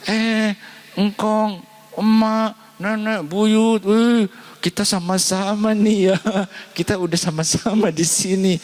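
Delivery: very high, squeaky happy greeting to the ancestors; high-pitched gleeful reunion voice; mock cheerful ancestor greeting.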